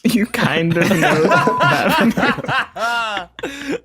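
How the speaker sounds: slow teasing echo, laughing; mocking. Real, not acted. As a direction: repeat it back to mock them. Mocking a guest's vague claim.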